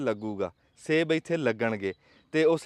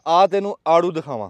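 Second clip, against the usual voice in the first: dramatic loud aunty; 8 dB louder than usual. Real, not acted. Boasting challenge about the peaches.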